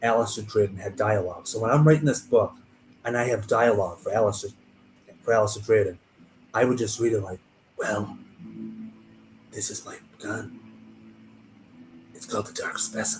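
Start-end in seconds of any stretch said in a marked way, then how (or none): 7.8-13.2 breathy, whispered put-on voice. Reading a character's dialogue while writing a book, Clint Eastwood voice. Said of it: "in the voice of Clint Eastwood".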